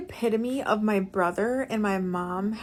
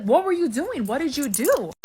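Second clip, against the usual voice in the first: raised-pitch exasperated questioning; angry brother; 4 semitones higher than usual. Retold or imitated. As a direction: imitate a brother grilling Mom. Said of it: "my brother's getting increasingly angry".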